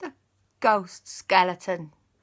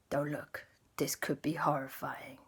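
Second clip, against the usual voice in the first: whispered warning; grim whisper; 3 semitones lower, 8 dB quieter than usual. Acted. Superman warning the crowd, grim whisper. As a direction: hush them before the worst.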